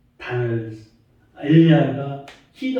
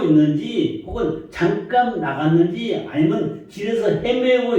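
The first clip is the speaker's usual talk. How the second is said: higher-pitched, lightly mocking retold taunt; mocking Elijah; 5 semitones higher than usual. Elijah taunts the Baal prophets about their god, mildly mocking. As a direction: retell it as a mild, rhetorical jeer. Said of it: "엘리야가 조롱을 합니다".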